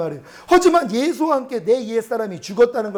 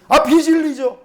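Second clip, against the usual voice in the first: sheepish admission; 6 semitones higher, 5 dB louder, slower than usual. Retold or imitated. His sheepish answer to God.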